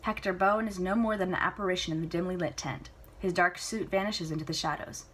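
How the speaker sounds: plain reading voice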